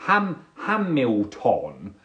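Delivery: "Hamilton" restarted, slowly, as Ham-mill-ton; stumbling pronunciation. Acted. Second stumbling try at Hamilton.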